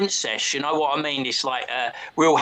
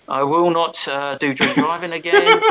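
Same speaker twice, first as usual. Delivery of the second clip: mock repentance; 4 dB louder than usual. Forced written apology recited.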